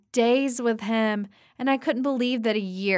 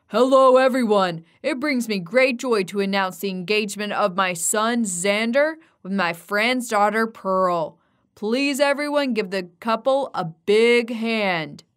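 loud, proud host addressing the room; public announcement; 4 dB louder than usual. Acted. Xander's dad announcing the engagement to the guests, loud and proud. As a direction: announce it to the whole party.

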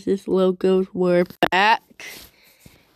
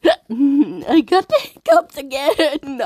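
laughing; 4 semitones higher, 3 dB louder than usual. Real, not acted. Laughing about hiccups.

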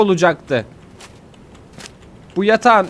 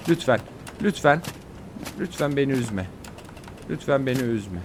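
quieter, coaxing plea; gentle begging; soft pleading; 3 semitones lower, 7 dB quieter than usual. Real, not acted. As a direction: sweet-talk it softly. Begs the game nicely.

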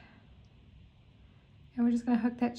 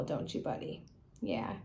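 whispering to pet; 6 semitones lower, 10 dB quieter than usual. Real, not acted. Murmuring to cat.

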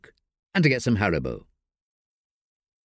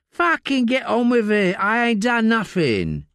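high, coarse London voice of a desperate addict; Layla, rough addict; 11 semitones higher than usual. Acted. Addict Layla snapping at detective Josie in interview. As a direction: snap like a strung-out woman in custody.

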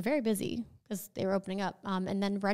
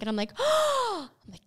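mock gasp; 10 semitones higher than usual.

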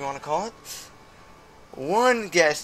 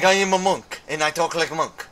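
imitating monk voice; 2 semitones higher, 4 dB louder than usual. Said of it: "It's like".

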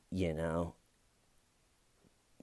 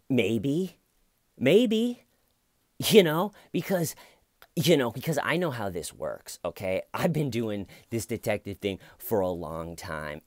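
mock shrill defensiveness; 2 semitones higher, 4 dB louder than usual. Mocking suspect's shrill defensiveness.

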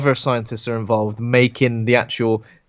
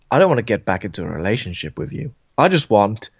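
sleazy slow voice; 2 semitones lower than usual. Retold or imitated. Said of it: "he says something along the lines".

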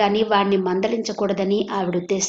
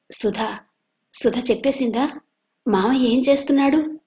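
mildly anxious, rising higher; anxious asking; 4 semitones higher than usual. Acted. Madhu waking and asking his cousin, mildly flustered. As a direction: ask in a flustered hurry. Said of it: "కంగారు కంగారుగా అడిగాడు".

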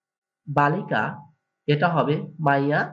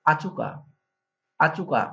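Sylheti word; slower than usual. Shown as a demonstration. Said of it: "Sylheti ভাষা হবে".

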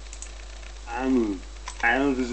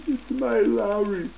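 "It's my Larry" much higher and slow; high silly voice; 10 semitones higher, slower than usual. Acted. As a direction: squeak the line out slowly. Same words high, then low.

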